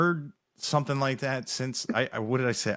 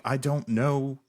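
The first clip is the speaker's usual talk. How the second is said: higher, protesting with a laugh breaking in; retold exasperation; 4 semitones higher than usual. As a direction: plead total ignorance, pitch climbing. Retells his ignorance of the songs.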